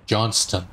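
Johnston with the T sounded; careful "Johnston", T before the last syllable; T pronounced. Shown as a demonstration. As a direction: say "Johnston" with its T in place. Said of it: "With a T".

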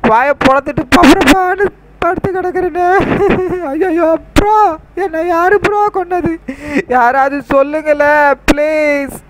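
high, slowing mock wail for help; hammed-up panicked cry; distressed pleading. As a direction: beg everyone to tell you who did it. Dead Franklin begs for answers.

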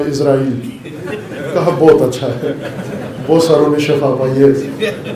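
chuckling as he tells the punchline; amused, laughter in the voice; laughing through it. Real, not acted. Preacher telling the congregation the joke, laughing.

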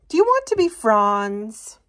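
lightly voiced jungle plant; friendly jungle plant. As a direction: invite her to be friends. Jungle plant greeting Sprout.

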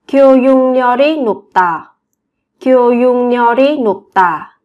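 교육열이 said as gyo-yung-nyeo-ri; sound change. Shown as a demonstration. Teacher showing learners the sound change in 교육열이. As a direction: link 교육열이 with a nasal ng-ny in the middle. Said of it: "Các bạn biến âm".

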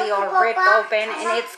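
lips pressed by fingertips; speaking while touching lips; fingers at lips. Real, not acted. Seen 1: fingers touch lips early, drop away by 0.6 s.

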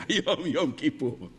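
low-pitched, openly voiced announcement; אמירה ישירה בפנים. Shown as a demonstration. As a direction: say it straight to her face, low. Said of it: "תגיד לה בפנים". (אמירה ישירה בקול נמוך)

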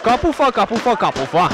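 shouted, then dropping back; excited repetition. Real, not acted. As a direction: call it out again and again. Repeating hit post in excitement.

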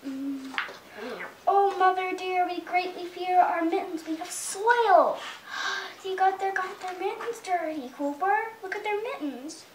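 put-on lively storybook reading to a toddler; mother reading a picture book to her little son; reading to children. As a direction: read it out like bedtime story time.

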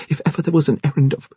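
put-on high, trembling young woman's voice. A narrator's reading. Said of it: "Rose said in a trembling voice".

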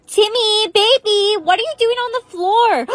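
high, tearful melodramatic cry; distraught wailing. Acted. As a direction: wail in shock over the body, gasping. Finding Timmy dead on the floor.

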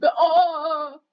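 high loud excited oh oh; excited gasps. Real, not acted. Finding a ghost in the game, excited gasping. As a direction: gasp as you spot it.

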